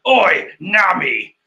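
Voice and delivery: mock yell. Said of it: "picks up a shard and yells".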